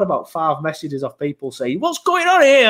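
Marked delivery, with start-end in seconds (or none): 1.8-2.7 much higher and louder, baffled; puzzled question. Retold or imitated. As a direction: ask it like you can't believe what you're seeing. Confused fans messaging him.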